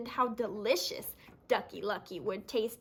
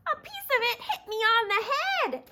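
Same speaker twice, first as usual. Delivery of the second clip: a higher, laughing chick voice; 11 semitones higher, 4 dB louder than usual. Acted. Chicken Little telling the officer, high eager voice. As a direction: tell it eagerly. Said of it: "added Chicken Little".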